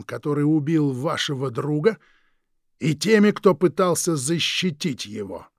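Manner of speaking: slow, silky, threatening drawl; menacing villain. Acted. Villain Krieg menacing the Forbes couple, slow and silky. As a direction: savour each word like a veiled threat.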